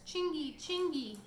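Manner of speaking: high, loud bellowing call; giant's shout. Acted. The giant yells for his pixie servant, loud. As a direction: bellow the servant's name across the castle. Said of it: "shouted so loudly".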